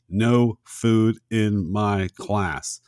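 slow, deliberate teacher's rule; strict teacher rule. Retold or imitated. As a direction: lay down the law one word at a time. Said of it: "one of the things he says".

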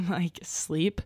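whispered aside. Real, not acted. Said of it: "unvoiced whisper".

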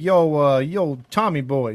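loud mock Boston fan; hammed-up Boston shout-out; put-on Boston accent. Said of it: "they put on their Boston accent".

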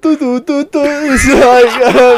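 a silly high-pitched Brummie imitation, laughing into it; an over-the-top Birmingham accent sent up for a friend. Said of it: "Can you do a Birmingham impression?".

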